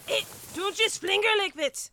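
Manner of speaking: loud, high, indignant objection; alarmed protest. Acted. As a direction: snap at them to be careful. Protesting rough handling.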